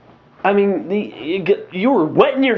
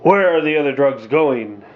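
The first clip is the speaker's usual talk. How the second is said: Batman voice; 4 semitones lower than usual. Retold or imitated. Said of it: "What did you want him to talk like?".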